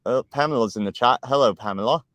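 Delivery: lightly put-on voice, a touch lifted; a hint of someone else's voice in a chat greeting; D N W impression. Host greeting Pamela in the chat, light impression. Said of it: "doing D N W's voice".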